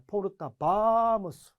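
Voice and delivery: 바무스 leaned on, 포르타 kept light; stress on 바무스. Shown as a demonstration. Teacher shows the stress moving onto 바무스. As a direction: put the weight on 바무스, said slowly. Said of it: "강세 위치가 바뀌죠".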